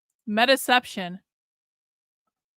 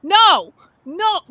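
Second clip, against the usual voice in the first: sudden loud cry of no; real dismay as the guest logs off; 8 semitones higher, 7 dB louder than usual. Real, not acted. Streamer dismayed, guest leaves live.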